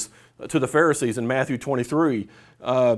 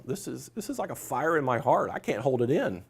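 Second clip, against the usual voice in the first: softer, intimate retelling; hushed quote; 8 dB quieter than usual. Real, not acted. Speaker softly repeats Jeremiah's fire quote to listeners. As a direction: draw them in, say it quietly.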